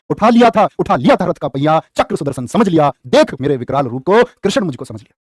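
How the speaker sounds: low, measured heroic poem; teacher reciting Abhimanyu's verse to his pupils; heroic verse recitation. Acted.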